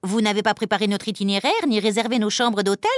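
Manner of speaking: mild hammed-up panic; panicked outcry. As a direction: cry out as a fussy planner caught unprepared. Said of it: "s'écrie Monsieur Lapin affolé".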